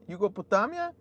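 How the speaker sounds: a laugh, then the name with a rising question; laughing disbelief. Real, not acted. Streamer laughs at a viewer's place name, amused disbelief. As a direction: chuckle at the odd name as you repeat it.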